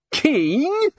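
startled disbelief; shocked. A narrator's reading. Nobby shocked.

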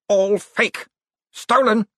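a man falling to bits, thick-tongued; slurred thick tongue. Acted. Cosmo falling to bits before the crowd, high slurred cry. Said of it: "as if his tongue was an inch thick".

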